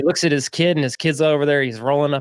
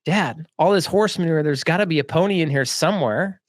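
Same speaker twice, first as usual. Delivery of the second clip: lightly voiced eager child, higher pitch; hopeful kid; 4 semitones higher than usual. Optimistic boy to his dad while digging, eager hope.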